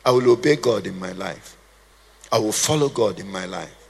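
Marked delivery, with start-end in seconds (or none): 2.3-3.8 low, steady resolve without shouting; quiet determination. Shown as a demonstration. Preacher shows his church a firm but quiet vow. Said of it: "what we call a quiet determination".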